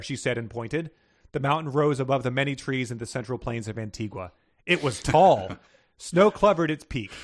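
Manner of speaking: lively read-aloud narration with a few voiced lines; reading a fantasy story to a co-host. A narrator's reading. Host reads story aloud.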